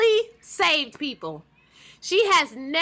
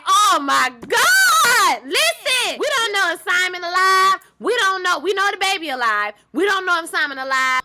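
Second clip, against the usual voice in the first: high, loud, emotional outburst; tearful exclamation; 6 semitones higher, 6 dB louder than usual. Retold or imitated. Viewer crying as the baby cries on screen, emotional outburst. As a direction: blurt it through rising tears. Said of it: "I said".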